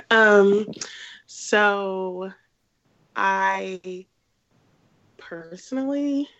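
sick, congested voice; stuffy nose. Real, not acted. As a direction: talk with a head cold. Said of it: "I sound weird 'cause I'm sick".

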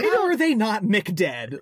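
laughing through the words. Real, not acted. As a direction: chuckle while asking. Joking about characters surviving the fall.

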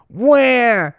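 put-on high, loud babyish wah; hammed-up crybaby wail; mock wail. Slider crying out.

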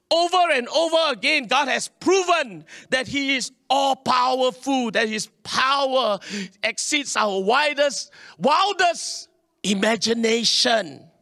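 preaching at full force. Real, not acted. Preaching climax.

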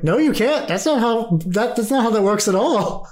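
protesting tree speaker. Acted. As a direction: play a character correcting someone. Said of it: "the tree speaker's like".

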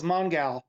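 "Mongal" with the GAL punched; stress on GAL. Real, not acted. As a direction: lean on the second syllable of "Mongal". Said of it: "you really have to emphasize the gal".

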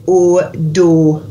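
"or", then "do" with the same pure O; "or" sound plus D. Shown as a demonstration. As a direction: say "do" as "daw", rounded and unglided. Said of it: "stick a D on the front of it".

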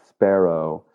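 "sparrow" said as a pronunciation guess; tentative pronunciation. Shown as a demonstration. Guest answers host on how Spiro is said, tentative pronunciation of "sparrow". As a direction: offer "sparrow" as the way to pronounce the name. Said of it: "I guess it's pronounced".

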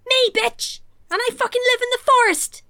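loud, high mock outrage; indignant retort. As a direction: shout down a cheeky challenge. Imagined angry retort to Lily.

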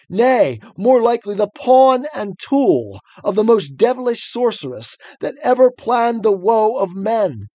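put-on rising, desperate old-fashioned knight's plea; stagey fake archaic declaiming. Reads the knight's long plea.

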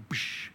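unvoiced "psh" burst; imitated explosion sound; mind-blown noise. Preacher reacting to Jesus' promise, mind blown.

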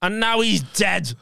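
high-pitched mum imitation; mum's voice. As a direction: mimic mum breaking the news, slowing at the end. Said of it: "And she went".

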